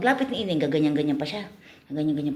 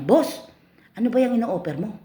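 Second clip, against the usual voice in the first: curious customer; 7 semitones higher than usual. Acted. Customer asks the pimp.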